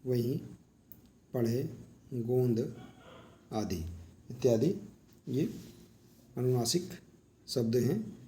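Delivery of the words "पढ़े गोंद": पढ़े, गोंद slowly, the nasal in गोंद drawn out; sounding out nasal words. Shown as a demonstration. Teacher giving students nasal examples, slow and careful. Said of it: "जैसे कि देखिए".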